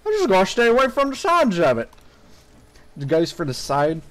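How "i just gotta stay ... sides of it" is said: higher, rushed, slurred mock voice; hammed-up hurried self-mockery; mock repeat. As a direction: parrot yourself with mushy sh-sounds. Repeats own line in mock slurred voice.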